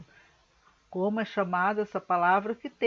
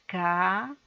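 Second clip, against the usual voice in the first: syllables said separately. Shown as a demonstration. Teacher asking pupils to say it separately, "caminhão" syllable by syllable. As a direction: break "caminhão" into three isolated syllables. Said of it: "Falem separadamente".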